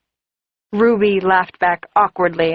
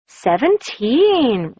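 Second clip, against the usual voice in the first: surprised repeat; 5 semitones higher, much slower than usual. Acted. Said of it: "Ruby repeated".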